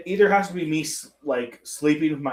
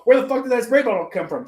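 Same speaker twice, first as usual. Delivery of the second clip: higher, incredulous question; retold bewilderment; 8 semitones higher, 4 dB louder than usual. Patient to therapist after being squirted, retold bewilderment. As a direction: demand to know, mock-baffled.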